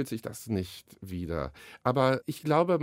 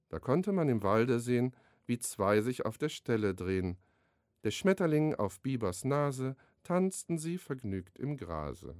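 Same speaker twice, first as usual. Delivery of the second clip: a measured, rhythmic rhyme reading; poem recital. Acted. Author recites his beaver and butterfly poem, rhythmic recital. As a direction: let the rhymes land, like reading to children.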